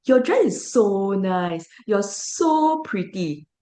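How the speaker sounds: slow, mock-sweet sarcastic praise; drawled fake compliment. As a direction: stress the word so, insincerely. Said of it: "used sarcasm and said".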